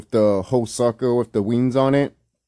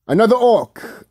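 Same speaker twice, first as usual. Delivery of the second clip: mock exclamation; 12 semitones higher, 5 dB louder, slower than usual. Real, not acted. Mocking exclamation at screen.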